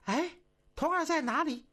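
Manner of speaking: put-on high, worried call for the boy; the dowager calls out in alarm; anxious calling. A narrator's reading. Empress Dowager searching for the vanished page, anxious. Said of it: "西太后着急了".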